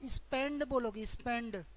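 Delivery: स्पेंड ending in a voiced ड; taught pronunciation. Shown as a demonstration. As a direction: say स्पेंड firmly with a "d" at the end. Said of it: "क्या बोलोगे?". (स्पेंड, आखिर में 'ड' की आवाज़)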